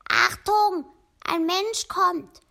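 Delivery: hoch und laut, langsam gerufen; Warnruf. A narrator's reading. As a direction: ruf die Warnung über den Wald. Rabe warnt die Tiere. (der Rabe warnt die Tiere laut und hoch)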